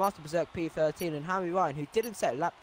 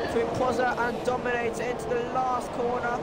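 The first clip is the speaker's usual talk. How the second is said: excited; 5 semitones higher, 13 dB louder than usual. Real, not acted. Late-braking move called live.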